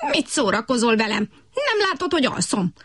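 croaky frog voice, indignant at being woken; grumpy frog outrage. A narrator's reading. Frog Kutykurutyki woken by the butterfly, grumbling indignantly. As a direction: snap back, woken from sleep. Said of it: "háborgott Kutykurutyki".

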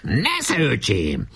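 high start, falling away; high-pitched battle taunt; taunting cry. Acted. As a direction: call it out as you throw. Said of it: "minden bombával kiáltott egyet Barabás".

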